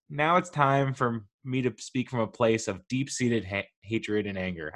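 stumbling over the words; stammering on the word; stuttering. Real, not acted. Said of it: "I can't even do it. I'm, like, stuttering".

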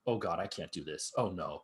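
low, quiet sinking dread; deflated, softly acted despair; retold dismay. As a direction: mutter it as if overwhelmed. Retold dismay at all pieces.

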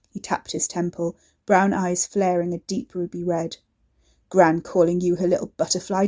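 loud taunting bully voice; menacing thug. Acted. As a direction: goad her into a fight. Ricky menacing, taunting Katy.

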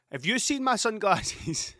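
high, slow mock child voice; a hint of a crying little boy. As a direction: imitate the weepy youngest asking. Mocking crying son's question.

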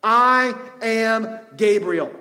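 slow, stately announcement by an angel; Gabriel. Acted. Angel introducing himself to a doubting priest, slow and grand. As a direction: declare your identity word by word, very slowly. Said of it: "And the angel said to him".

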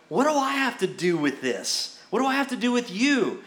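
indignant retort, rising on the second question; put-on affronted brush-off; mock attitude. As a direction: push back with acted-out sass. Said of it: "He gets an attitude".

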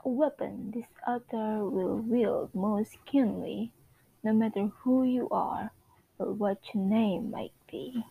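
a lightly put-on British narrator, measured and grand; Lady Whistledown narration. Reading Whistledown's column to her listeners, lightly British. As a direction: read it like a gossip columnist's decree.

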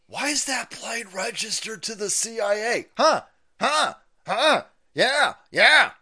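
high, loud mock-innocent questioning; mocking innocence. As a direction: play dumb in a sneering, mocking voice. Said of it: "people would be like".

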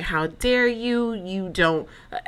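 mock offended ex, half-hearted; imitating an indignant boyfriend breaking it off; retold upset. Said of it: "He gets upset".

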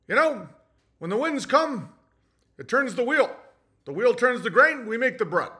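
plain-spoken salt-of-the-earth cadence; matter-of-fact. Acted. Farmer stating simple truths to win trust, matter-of-fact. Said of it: "Very matter of fact".

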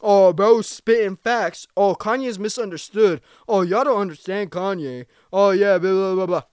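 a loud, mocking imitation of fans online; sneering commenter voice. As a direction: parrot the TikTok commenters with scorn. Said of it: "I see y'all in the comments".

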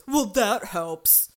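loud, drawn-out mock petulance; childish sarcasm. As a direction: drag it out like a sulky child. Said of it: "an actual child".

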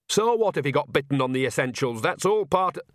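lightly voiced cheeky old woman; a hint of a sly old granny; old witch voice. Nanny character continues.

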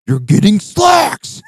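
high, slow shrieking Lois voice; mock Lois yell, high and drawn out; Lois shout. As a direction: shriek it like a cartoon mom. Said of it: "dressed up as Lois".

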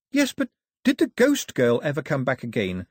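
put-on a child pressing the question, firm and insistent; won't be put off; determined girl. Girl pressing the old man for the ending, determined. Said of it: "in a determined voice".

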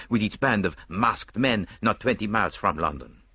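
detective angry at the pointless attack; angry Poirot. Acted. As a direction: scorn for a melodramatic plot.

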